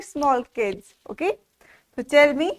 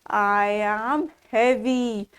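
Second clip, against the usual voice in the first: slow, lightly voiced elephant; 3 semitones lower, slower than usual. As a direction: speak as a lightly played elephant. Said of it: "So elephant says".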